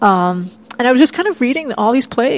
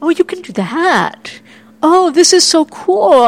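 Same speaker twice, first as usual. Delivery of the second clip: thrilled realization; 7 semitones higher, slower than usual. Retold or imitated. Teen finds a play's cube set, thrilled slow awe. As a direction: savour the discovery, then let it burst. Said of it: "And I was like".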